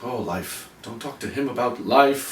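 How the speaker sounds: a hint of a depressed android sighing about life; mopey robot quote. Co-host quoting Marvin the depressed android, mildly mopey. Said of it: "Marvin the paranoid android".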